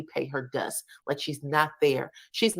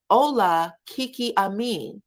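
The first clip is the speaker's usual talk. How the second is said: lightly teasing, lilting hello; imitating a playful hello; playful greeting; 4 semitones higher than usual. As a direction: greet them with a touch of playfulness. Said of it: "he's real playful with them".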